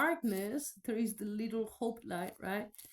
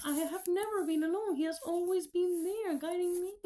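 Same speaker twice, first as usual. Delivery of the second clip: higher, voice near tears; tearful; 7 semitones higher than usual. Real, not acted. Admitting to Jesus she was never alone, near tears. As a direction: let the voice crack with emotion.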